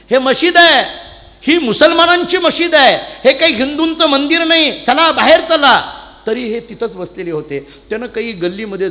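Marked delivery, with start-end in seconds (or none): 0.1-6.0 loud, higher, slow shouting order to get out; furious fakir throwing pilgrims out of the mosque, shouting; angry fakir shout. Retold or imitated. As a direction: bark them out of the mosque, slowing at the end. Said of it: "त्याचा बोलण्याचा भाव लक्षात घ्या".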